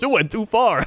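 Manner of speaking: high, punchy Chicago radio ad voice; Chicago ad guy. Retold or imitated. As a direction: deliver the ad tag line like a Chicago pitchman. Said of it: "every time he goes".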